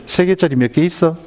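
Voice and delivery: patient first ask, only mildly acted; mother quizzing child. Mother teaching her child multiplication, lightly acted quizzing.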